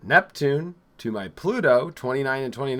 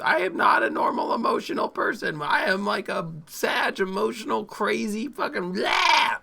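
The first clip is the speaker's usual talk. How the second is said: raised, higher voice, half shouting; excited shouting; 5 semitones higher than usual. Real, not acted. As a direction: get fired up about her own chart. Worked-up self-description shout.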